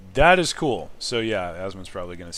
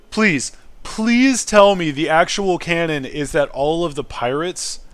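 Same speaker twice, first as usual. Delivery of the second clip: delighted pleading; 7 semitones higher, 13 dB louder, slower than usual. Real, not acted. Begging the game to be true.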